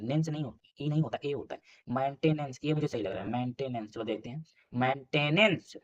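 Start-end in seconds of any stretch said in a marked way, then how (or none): 4.7-5.8 slow sounding out. Shown as a demonstration. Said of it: "भी सही है यार".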